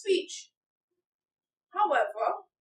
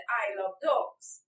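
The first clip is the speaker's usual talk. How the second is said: slow example read; 5 semitones lower, slower than usual. Shown as a demonstration. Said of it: "Martha said".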